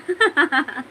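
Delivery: quick amused laugh; short laugh. Real, not acted. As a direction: laugh at your punchline. Laughs at own punchline. (छोटी सी हंसी)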